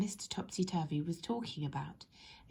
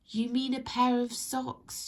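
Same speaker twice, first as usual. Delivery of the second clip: smiling; 5 semitones higher, 4 dB louder than usual. Acted. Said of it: "she smiled".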